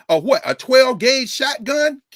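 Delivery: can't believe what he's saying; incredulous. Real, not acted. Speaker outraged to the audience at the shotgun, incredulous.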